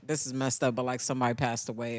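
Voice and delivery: low, soft pretend condolence call; subdued bad news. Mom phones with sad news before audition, subdued. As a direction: break it gently, low and soft.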